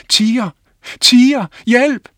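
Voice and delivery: high, loud cry for help; boy shouting a second false alarm. Acted. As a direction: yell it again to fool the men. Boy cries wolf again.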